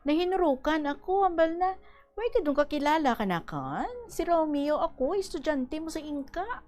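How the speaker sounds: steady radio reading of a letter; on-air letter read. Acted. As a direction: read the listener's letter to the audience. Host reads listener's letter on air.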